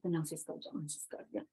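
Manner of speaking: bisikan pelan pada diri sendiri; menenangkan diri. Retold or imitated. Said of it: "saya nggak". (berbisik menahan diri)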